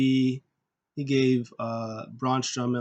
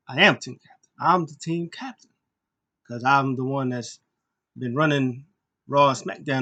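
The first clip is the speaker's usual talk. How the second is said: insistent shout; 4 dB louder than usual. Retold or imitated. AJ Styles insisting he's captain.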